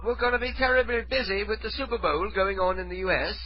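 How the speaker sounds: high-pitched British prank-call voice; fake British accent. Prank caller pressing the woman not to hang up, fake British accent. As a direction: plead in a put-on British accent. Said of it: "fake British accent".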